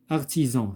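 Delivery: "Artisan" with the S voiced as Z; S prononcé Z. Shown as a demonstration. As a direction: say "Artisan" with a clear z sound in the last syllable. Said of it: "se prononce Z". (« Artisan » avec le S prononcé Z)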